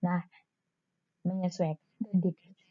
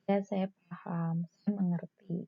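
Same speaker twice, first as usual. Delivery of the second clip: soft reassurance; 2 semitones lower, 4 dB quieter, slower than usual. Shown as a demonstration. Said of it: "Tadi kalimat-kalimat kalau".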